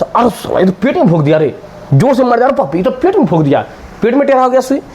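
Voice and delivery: a patient howling as the nurse jabs his belly; pained mock yell. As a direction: wail like the needle went in crooked. Patient cries out when stabbed.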